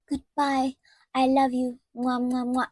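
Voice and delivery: put-on high, sugary baby talk with kisses; mock sweet voice. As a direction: parody her cooing at the dog. Mocking Nehemia to the dog.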